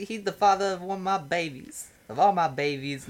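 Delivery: squeaky talk show guest; high mock talk show voice.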